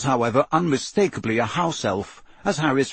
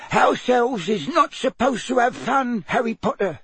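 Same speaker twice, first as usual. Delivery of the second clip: firm elf squeak; 12 semitones higher than usual. A narrator's reading. House elf lays down rules to Harry, firmly squeaking. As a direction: squeak it firmly, laying down the rule. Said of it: "said Winky firmly from behind her hands".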